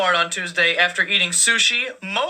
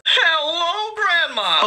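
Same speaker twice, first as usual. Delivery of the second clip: mock surprised greeting; 8 semitones higher, much slower than usual.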